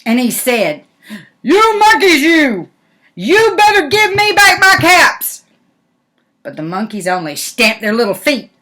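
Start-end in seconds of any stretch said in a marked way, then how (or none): 1.4-5.4 much higher, louder furious demand; really angry peddler. Acted. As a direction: storm at them, stamping your foot. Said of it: "Now he got really angry".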